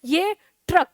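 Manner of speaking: ट्रक with the र rolled firmly after ट; ट्रक, र clearly stressed; r emphasised. Shown as a demonstration. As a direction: lean on the र in ट्रक. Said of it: "ट के बाद र पर हम focus करते हैं".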